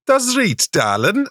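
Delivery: high pitched mock Durham voice; Durham accent. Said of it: "trying to do it, no run up".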